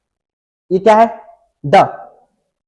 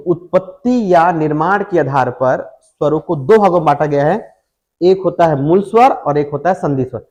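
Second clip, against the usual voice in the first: dictation. Shown as a demonstration. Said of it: "dictating notes".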